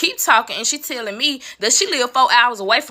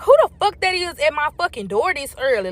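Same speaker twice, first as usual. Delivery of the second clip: retold cussing, pitched up; irritated cussing; 4 semitones higher than usual. Woman cussing about whoever is at her door early, irritated. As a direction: re-enact an annoyed demand at an early knock. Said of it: "I'm cussing just like that".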